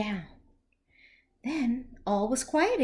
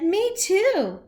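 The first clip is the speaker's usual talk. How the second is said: big fish voice; 7 semitones higher, 6 dB louder than usual. Acted. Big Al's line in story.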